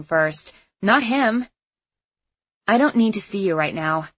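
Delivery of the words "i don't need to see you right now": through gritted teeth. Acted. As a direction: force it through clenched teeth. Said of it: "said through gritted teeth".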